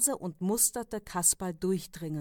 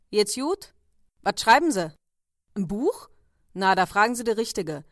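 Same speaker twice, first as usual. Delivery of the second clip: loud, brisk Berlin café owner venting; a fed-up café boss holding forth, louder; café owner griping to a customer, loud and brisk; chatty café owner; 5 dB louder than usual. Acted. Café owner rants to writer.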